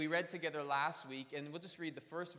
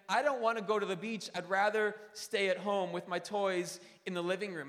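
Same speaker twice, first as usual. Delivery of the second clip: put-on whiny kid; 4 semitones higher, 8 dB louder than usual. Child refusing the beach.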